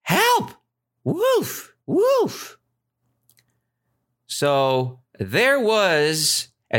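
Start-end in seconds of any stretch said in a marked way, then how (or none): 0.0-2.6 very high-pitched acted shout; mock cry for help. Shepherd boy shouts a trick alarm to villagers, high mock shout. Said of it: "He shouted".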